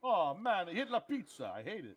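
goofy mock German grumble; wrong German accent. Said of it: "Just do wrong accents for everything".

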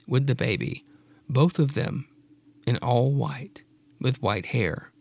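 ordinary talk

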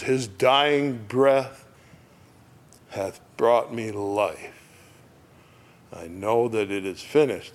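very slow reverent verse; slow lyric recital. Acted. Preacher reading the hymn line reverently. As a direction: savour each word.

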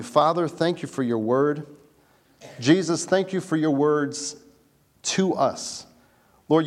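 earnest spoken prayer. Real, not acted. Pastor praying over the congregation before the sermon, earnest. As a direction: pray it sincerely to God.

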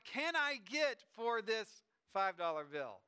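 slow, emphatic acted question; eager kid. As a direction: stretch each word as a kid maximizing the money.

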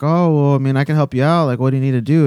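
imitating a very obliging worker; super nice. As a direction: offer help brightly and willingly. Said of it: "she's being super nice about it".

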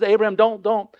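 angel's urgent halt; urgent intervention. Acted. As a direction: call out urgently to halt someone. Angel urgently halts the sacrifice.

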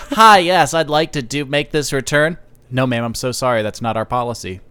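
phone persona. Retold or imitated. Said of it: "my phone sona".

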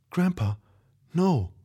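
put-on high, frightened girl's plea; weak, stuttering plea. A narrator's reading. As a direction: plead weakly, voice shaking. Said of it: "she stuttered, her voice weak".

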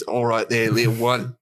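lightly voiced Australian tough guy; attempted Australian accent. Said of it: "Jason Statham playing the ferret says".

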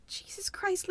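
whispered exasperation. Real, not acted. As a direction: hiss it under the breath. Reacting to dangerous scene.

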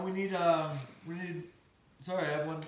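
talking around a candy; chewing while talking; mouth full. Real, not acted. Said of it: "I'm eating one right now".

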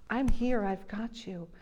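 soft, fading comfort; tender reassurance. Retold or imitated. God to the frightened girlfriend, softly comforting. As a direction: close and gentle.

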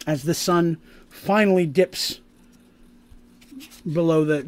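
measured storytelling with long pauses; suspenseful scene narration. Acted. Game master leads players up to the howling, suspenseful narration. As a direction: draw out the suspense, punching key words.

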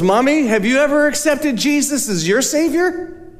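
put-on high, small little-girl voice; lightly voiced little girl; child's voice. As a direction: lift into an innocent child asking. Voicing the ten-year-old daughter.

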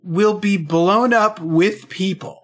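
slow, weighted reading of "blown up with people"; slow deliberate reading. Shown as a demonstration. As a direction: savour each word slowly. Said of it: "Say the words".

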